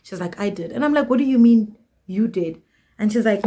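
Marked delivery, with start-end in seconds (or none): 0.4-0.7 softer, matter-of-fact admission; deadpan. Retold or imitated. Friend repeating her confession to the narrator, deadpan. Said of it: "she says it with a straight face". 1.1-2.6 retold disbelieving question; incredulous. Narrator questioning her friend's confession, incredulous.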